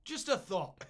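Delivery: sanctimonious suggestion of peace; King James urging peace, mock sanctimonious; mock pious peacemaker. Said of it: "he's trying to".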